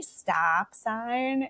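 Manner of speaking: put-on drawn-out "stop sign", poking fun at a Midwestern accent; mocked Midwestern accent. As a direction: STOP said slowly in a mock Upper Midwest accent. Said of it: "making fun of my accent".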